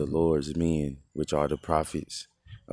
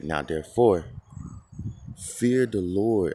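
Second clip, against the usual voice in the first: slow, loud, raised voice on fear the Lord; loud all caps reading; 3 semitones higher, 4 dB louder, slower than usual. Shown as a demonstration. Preacher reading scripture to his listeners, slow and booming. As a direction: boom out the all caps words slowly. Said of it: "all caps".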